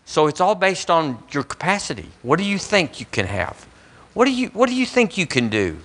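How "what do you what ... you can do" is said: challenging question. Retold or imitated. Challenges the listener in a high voice.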